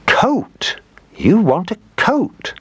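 put-on high, excited old lady guess; the old woman finally hits on it; triumphant old woman. A narrator's reading. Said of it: "she said".

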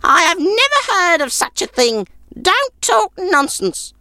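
put-on very high crabby old woman voice; grumpy old woman. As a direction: sour old crone refusing. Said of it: "snorted the old woman".

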